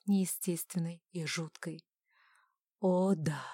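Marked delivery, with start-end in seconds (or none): 2.8-3.4 drawn out. A narrator's reading. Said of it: "протянул он".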